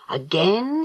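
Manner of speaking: rising, astonished question. Acted. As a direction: echo it back in disbelief. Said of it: "his eyes wide with astonishment".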